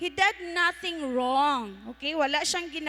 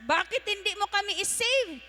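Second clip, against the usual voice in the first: raised, higher-pitched taunting demand; acted yell; 5 semitones higher than usual. Thief A yelling at Jesus to save them, acted yell. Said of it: "He yelled at Jesus saying".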